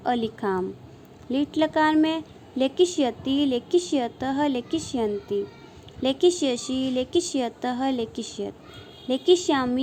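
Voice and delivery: sing-song drill reciting verb forms; rhythmic paradigm recitation. Shown as a demonstration. Sanskrit teacher drilling students on verb forms, rhythmic sing-song recitation. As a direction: chant each form in sets of three, rising then falling.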